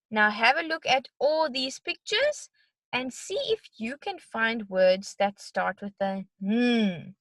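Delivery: bright sing-song teacher voice; kids show host. Acted. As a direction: talk to little ones, cheerful. Teacher addressing young kids.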